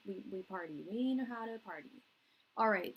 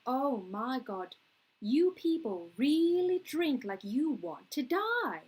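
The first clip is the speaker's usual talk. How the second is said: put-on slow, high-swooping Irish accent; exaggerated Irish lament, stretched out and rising louder; Roy, Irish accent; 4 semitones higher, 7 dB louder, slower than usual. Hungover Irishman to his British coworkers, hammed-up Irish accent. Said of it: "that's an Irishman saying that".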